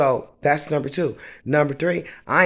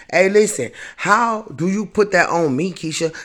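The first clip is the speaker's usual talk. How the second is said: raised, heated voice; angry; 3 semitones higher than usual. Real, not acted. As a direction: call her out hard. Confronting Keisha about the car.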